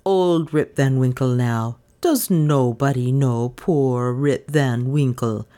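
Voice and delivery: put-on low, slow, drawn-out voice of old Rip; Rip's plea. A narrator's reading. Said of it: "cried he".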